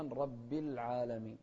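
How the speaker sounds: رب slowly ending in -bi into العالمين; clear kasra on ba. Shown as a demonstration. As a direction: sound the i after the doubled b of رب. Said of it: "والباء أيضًا". (رب بكسرة واضحة على الباء)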